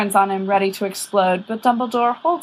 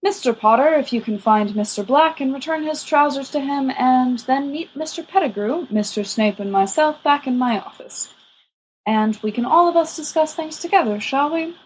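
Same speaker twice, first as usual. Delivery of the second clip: put-on lightly higher, genial old wizard; kindly old headmaster; 5 semitones higher than usual. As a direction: coax the boys along politely. Dumbledore's voice, kindly.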